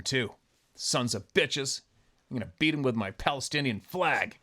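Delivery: high-pitched mocking rant as an outraged protester; mock angry protester. Ranter mocks an angry protester attacking cars, mock outrage.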